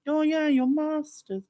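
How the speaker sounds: high, slow teasing mimic; drawn-out mocking echo of "master's"; mocking friends. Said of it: "they'd be like".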